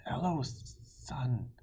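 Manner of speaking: hissed in a whisper; whispered dragon hiss. Acted. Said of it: "it opened one eye and hissed".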